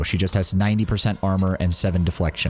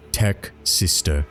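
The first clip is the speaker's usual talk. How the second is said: solemn pronouncement. Acted. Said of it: "and pronounces".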